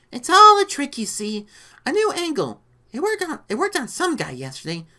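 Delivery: high, pleading character voice; lizard man. A narrator's reading. Lizard man explaining his trick to Rita, pleading. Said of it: "Oh, it was the lizard".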